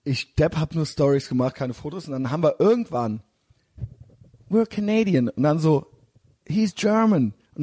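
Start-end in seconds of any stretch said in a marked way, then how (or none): 4.5-5.3 Canadian couple. Retold or imitated. Canadians introducing themselves, voiced. 6.4-7.3 Canadian introduction. Retold or imitated.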